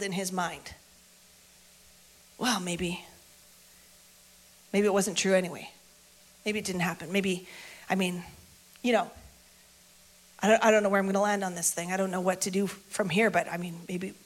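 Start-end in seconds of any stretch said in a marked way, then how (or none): 2.4-14.1 doubtful musing. Acted. Peter wrestling with doubt.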